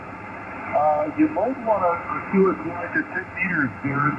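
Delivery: distant voice through a ham radio; fading shortwave radio. Real, not acted. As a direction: sound like you're on shortwave. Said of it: "a lot of Q S B on you".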